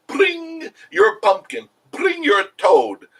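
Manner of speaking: hammed-up high fairy-tale voice, slow; mock fairy incantation. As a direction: intone it like a silly fairy godmother. Mocking fairy-tale elf talk.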